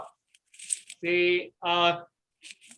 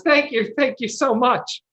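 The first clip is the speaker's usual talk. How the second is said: grateful peasant; 3 semitones higher, 3 dB louder than usual. Acted. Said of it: "the peasant man turns to you and goes".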